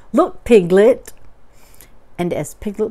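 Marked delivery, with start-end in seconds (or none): 0.1-1.1 loud, slow, showing off; Eeyore, proud. A narrator's reading. Eeyore shows Piglet his trick, loud and proud. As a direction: call attention slowly and loudly, pleased. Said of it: "said Eeyore proudly".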